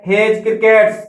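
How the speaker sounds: हेज crickets with no separate D in हेज; silent D. Shown as a demonstration. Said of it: "डी silent है". (हेज crickets में डी silent)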